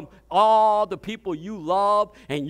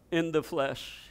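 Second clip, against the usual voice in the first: soft verdict; 4 semitones lower, 7 dB quieter than usual. Shown as a demonstration.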